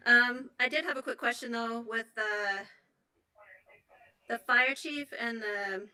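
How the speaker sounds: breathless, catching breath between words. Real, not acted. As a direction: talk while still winded. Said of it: "sorry, I'm out of breath".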